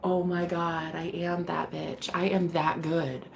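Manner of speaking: soft and slow, awed; hushed awe at herself. Retold or imitated. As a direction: breathe it like a secret triumph. Imagined self-praise, hushed.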